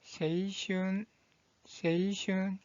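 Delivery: 세이슌 said slowly, softly; pronunciation demo. Shown as a demonstration. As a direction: model 세이슌 slowly for learners. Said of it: "이 한자의 발음은".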